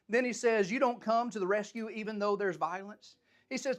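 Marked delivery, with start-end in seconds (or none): 0.7-3.2 frustrated complaint. Acted. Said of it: "He was angry".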